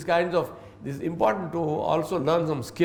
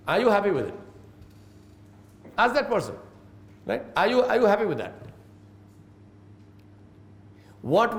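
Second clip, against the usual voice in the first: gentle questioning; 3 semitones higher than usual. Shown as a demonstration. Manager taking staff member aside, gentle probing questions. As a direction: invite them to reflect, never accuse. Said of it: "take them aside and say".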